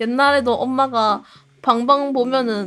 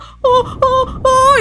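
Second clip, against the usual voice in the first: mock panic; 12 semitones higher, 5 dB louder, much slower than usual. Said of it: "이러면서 막".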